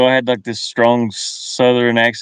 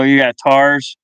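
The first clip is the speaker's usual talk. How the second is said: put-on Southern accent; 3 dB louder, slower than usual. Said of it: "when I was down south".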